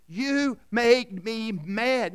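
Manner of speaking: slow, drawn-out accusing line; mock accusation. People blaming others for their anger, slow and accusing. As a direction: drag it out like a sulky accusation. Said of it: "what do we always say".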